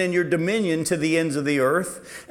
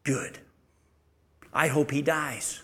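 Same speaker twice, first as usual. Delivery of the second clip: mock spiteful thought; 3 semitones lower, 6 dB quieter than usual. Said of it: "she wasn't sitting there at home thinking".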